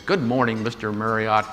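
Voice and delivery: a hint of a polished salesman's phone greeting; cheerfully courteous, lightly put on; sales and marketing voice. Greeting Marriott on the phone, in a mild sales voice. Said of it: "in my best sales and marketing voice".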